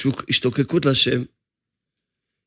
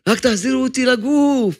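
mild cry from the soul, higher throughout; the pleading soul; 8 semitones higher than usual. Acted. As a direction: beg for one more prayer, a touch raised. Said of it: "מה הנשמה שלי תצעק". (נשמה צועקת ומתחננת, בקול גבוה)

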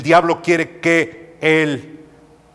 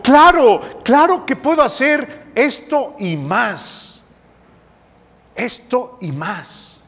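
loud, higher reproach, indignant; reproachful; 7 semitones higher, 3 dB louder than usual. Retold or imitated. Cristo reprende al padre, alto y fuerte. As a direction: Christ rebukes the doubt, ringing out loud and high. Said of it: "Cristo como que le reprocha".

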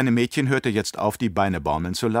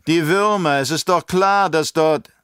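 higher, slower vehement objection; heated protest; 8 semitones higher, 6 dB louder than usual. Acted. Baron protests hotly to the emperor, raised and vehement. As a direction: protest hotly, drawing out each word. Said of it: "protestierte der Baron heftig".

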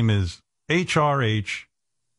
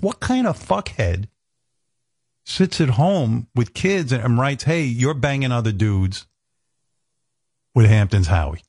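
outraged; 2 semitones higher than usual. Retold or imitated. Husband ranting about the troll to Beth, slow incredulous outrage. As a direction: spell out the outrage slowly.

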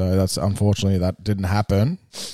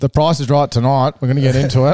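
game show host; 4 semitones higher than usual. Pretend. Host mimics game show opener.

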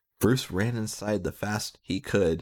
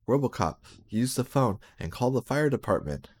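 urgent order; 5 semitones higher than usual. Acted. Bruce urgently orders RoboCop.

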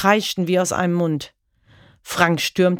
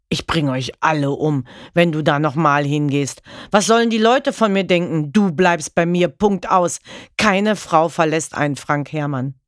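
menacing, louder husband threatening his wife; angry threat; 3 dB louder than usual. Acted. Husband threatening his wife, angry and loud. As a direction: snarl it as a jealous threat.

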